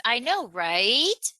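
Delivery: slow, drawn-out RIGHT swooping up; upturned tag question. Shown as a demonstration. Coach mocking people who say it constantly, RIGHT drawn out and rising. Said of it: "anyone who talks like that".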